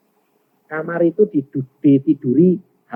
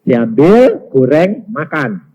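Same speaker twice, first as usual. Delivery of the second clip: measured voice of God, word by word; spaced-out divine instruction; God's instruction; 6 dB louder, much slower than usual. Retold or imitated. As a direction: give each word as a separate order. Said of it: "Tuhan bilang".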